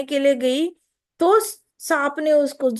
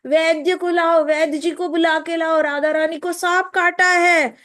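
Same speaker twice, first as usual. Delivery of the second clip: shouting from the door; 4 semitones higher than usual. Acted. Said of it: "जोर जोर से दरवाजे से चिल्ला रही".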